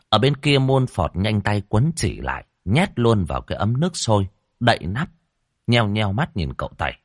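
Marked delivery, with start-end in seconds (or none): none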